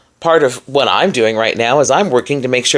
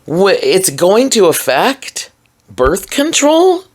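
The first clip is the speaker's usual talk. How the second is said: whispered disbelief; 6 semitones higher, slower than usual. Real, not acted. Disbelief at the policy.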